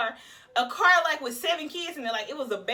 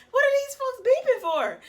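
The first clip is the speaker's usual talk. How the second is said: higher, louder irritated yell at honking; road rage; 11 semitones higher, 6 dB louder than usual. Retold or imitated. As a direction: snap at the cars in traffic. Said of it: "I got road rage".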